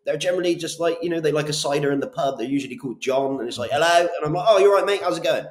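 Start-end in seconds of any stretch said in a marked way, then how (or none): 3.7-4.0 loud, high Bristol "Hello."; Bristol bloke. Retold or imitated. Imitating a Bristol landlord called John, loud Bristol greeting. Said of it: "someone who sounds like me from Bristol". 4.5-5.4 loud, much higher broad Bristol greeting; matey Bristol bloke, "you're right, mate" hammed up. Salesman matching a Bristol landlord, loud Bristol accent. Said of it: "someone who sounds like me from Bristol".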